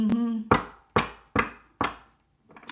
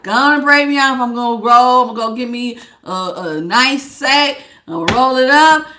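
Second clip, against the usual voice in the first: mocking lazy partner; 5 dB louder than usual.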